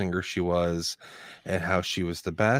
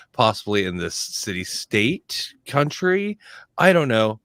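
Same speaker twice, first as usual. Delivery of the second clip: fake Southern accent. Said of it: "faking a Southern accent".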